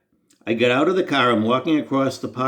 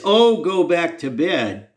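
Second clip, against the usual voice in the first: mock disgust; 5 semitones higher than usual. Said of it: "and that's what I get?".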